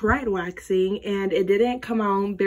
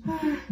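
short gasp of dread; nervous gasp; 4 semitones higher than usual. Real, not acted. Vlogger bracing to rip off wax, nervous gasp.

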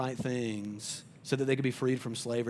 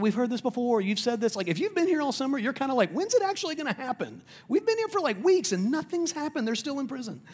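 high, louder fed-up complaining; exasperated eye-roll; 11 semitones higher, 3 dB louder than usual. Retold or imitated. Pastor imagining himself fed up with God's promises, exasperated. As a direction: whine it like you've heard it all before. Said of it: "I would have rolled my eyes".

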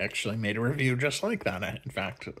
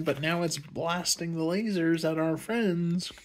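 lightly voiced indignant Finn, higher; mock Finn whine; 4 semitones higher than usual. Finn complaining to Rose about the cannon, mock whiny. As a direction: complain like a sulky hero. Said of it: "It's like".

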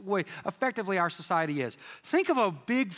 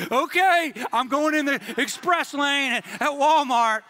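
bright, louder eager voice going along happily; mocking people who'd obey anything, eager and louder; eager mock shopper; 5 semitones higher, 5 dB louder than usual. Preacher imitating eager shoppers, loud and keen. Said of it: "you would have people".

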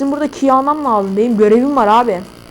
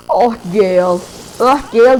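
Gale. Acted. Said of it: "Gale'ın seslerini de bazılarını biliyorum".

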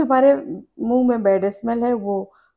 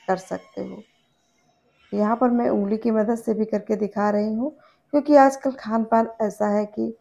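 talking while rubbing gums; finger in mouth. Real, not acted. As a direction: lips pulled by finger. Seen 3: Her finger rubs her gums inside her lips while she talks.

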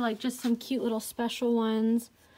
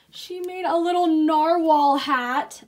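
louder, higher, drawn-out gushing; excited; 4 semitones higher, 8 dB louder, slower than usual. Real, not acted. Showing viewers a handmade baby hat, excited. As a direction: gush slowly over something adorable.

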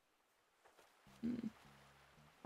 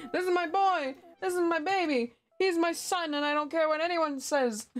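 excited gushing; 7 semitones higher than usual. Real, not acted. Streamer gushing to chat about her villager, excited. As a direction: show him off like a proud mom.

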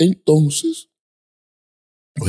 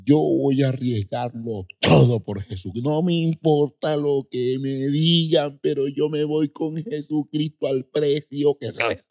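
higher, insistent declaration; firm resolve; 6 semitones higher than usual. Retold or imitated. Young convert vowing to risk all for Jesus, firm declaration. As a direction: declare it doggedly, stretching the words. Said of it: "me puse así, duro".

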